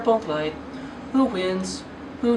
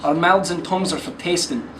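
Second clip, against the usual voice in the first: put-on broad Scottish accent. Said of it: "in a really, really thick Scottish accent".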